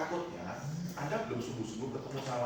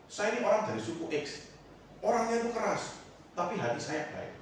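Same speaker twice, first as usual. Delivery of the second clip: boastful pastor; 8 semitones higher than usual. Retold or imitated. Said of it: "dia sering bilang".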